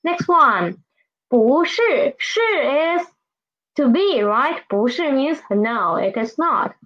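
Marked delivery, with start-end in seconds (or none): 1.3-2.1 "不是" with rising bú, then falling shì; changed tone sandhi. Shown as a demonstration. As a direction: lift "不" into second tone before "是". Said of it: "it will change to second tone".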